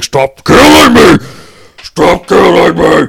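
slow, hoarse, high screaming, dragged out. Retelling how a guy reacted during a game, imitating a man screaming. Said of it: "he's screaming and yelling".

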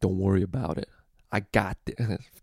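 shoddy, bad, put-on Italian accent. Describing an Italian dude who would hurt people for money, the speaker quotes him: shit Italian accent. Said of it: "that's a fucking shit Italian accent".

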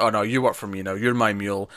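normal talking voice

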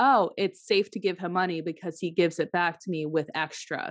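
ordinary talk

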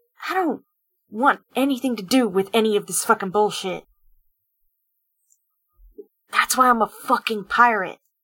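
words spat out as a hiss. Voicing Yun during a dance scene: Yun hissing. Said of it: "Yun just hisses".

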